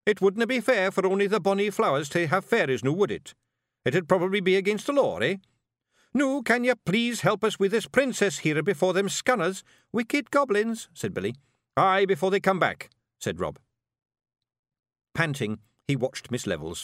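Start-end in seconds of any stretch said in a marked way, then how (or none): 0.1-10.9 high, loud wee Scottish fairy; rowdy little Scots pixie voice; broad Scottish accent. Acted. Feagle voice, Scots. 11.8-12.9 high, loud wee Scottish fairy; rowdy little Scots pixie voice; broad Scottish accent. Acted. The speaker's Feagle voice.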